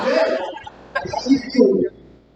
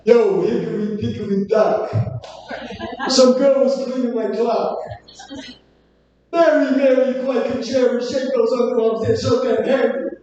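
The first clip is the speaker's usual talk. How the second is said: Andrew Dice Clay impression. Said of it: "Andrew Dice Clay".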